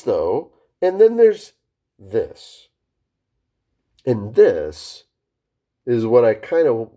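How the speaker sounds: slow, with pitch leaps up and down on each this; lively inflection. Shown as a demonstration. Trainer to call agents, demoing engaging varied inflection. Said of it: "we're using different kinds of inflection".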